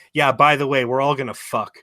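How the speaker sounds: high, loud, hammed-up come-on voice; mock seductive wife. Old wife voiced by teller.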